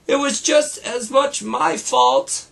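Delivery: high, eager little cub shout; a child cub shouting to take the blame; mock shout. Sister cub owning up to Mama, high eager mock shout. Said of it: "shouted sister".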